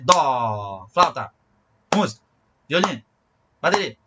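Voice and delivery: held dó, then short hurried words with pauses; wrong rhythm, rushed words. Shown as a demonstration. Music teacher showing what not to do, words rushed off the pulse. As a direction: rattle each word off quickly, leaving gaps between. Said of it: "Não vale fazer".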